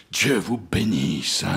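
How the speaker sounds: low, slow, understated sobbing blessing; cry mixed with sobs. A narrator's reading. Ahab blessing his crew, mildly sobbing. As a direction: bless them slowly, choked with feeling. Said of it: "une voix où le cri se mêlait aux sanglots".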